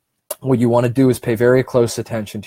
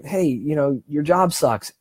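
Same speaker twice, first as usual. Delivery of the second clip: nagging brain voice; 4 semitones higher than usual. Retold or imitated. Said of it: "your brain will say".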